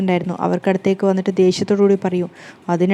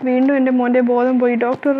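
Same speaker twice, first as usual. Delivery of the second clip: higher, alarmed cry for the doctor; panicked wail; 4 semitones higher than usual. Acted. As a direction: call out in a mother's panic. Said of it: "നിലവിളിക്കുമ്പോഴേക്കും". (ഉയർന്ന സ്വരത്തിൽ പരിഭ്രാന്തിയോടെ നിലവിളി)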